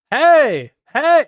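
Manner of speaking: loud, high mock shout of a greeting; imitating buddy's yell. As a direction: holler it like an oblivious buddy barging in. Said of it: "keeps yelling my name".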